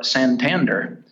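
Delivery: Santander in an American gringo accent; anglicized Santander, ending in "der". Shown as a demonstration. Gringo version after the Spanish one.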